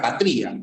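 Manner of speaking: "patria" wrongly as pa-TRÍ-a; stress on I. Shown as a demonstration. Teacher mocking the wrong form in an example, stressed Í in "patria". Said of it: "pues nada que ver".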